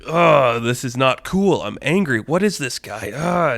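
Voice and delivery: cute, mock-angry minion grumbling. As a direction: fume like a harmless little creature. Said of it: "they're visibly getting mad".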